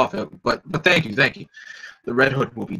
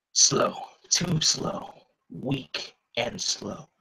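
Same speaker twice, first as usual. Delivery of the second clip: sneering villain; 4 dB quieter, much slower than usual. Acted. German villain taunting the fighters, slow and breathy. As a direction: drag out each word with contempt.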